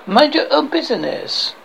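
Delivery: high mock French retort; outrageous French accent. French guard rebuffs Galahad, outrageous French accent. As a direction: snub them in a comic French accent. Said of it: "I have this outrageous accent".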